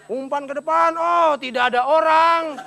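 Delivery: very slow, dragged commentary line; mock football commentator. Comedian imitating a commentator, slow drawn-out call. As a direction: stretch it out like a puzzled commentator. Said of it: "Ada gini".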